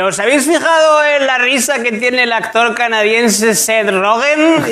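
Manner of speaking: a hint of showman, slowing at the name; stage host voice. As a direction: announce it like a nervous host. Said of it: "ya fue". (un toque de presentador nervioso)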